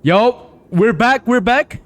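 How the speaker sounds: high, slow sing-song call; slow sing-song "we're back"; playful announcement. Pretend. Streamer announces the return playfully.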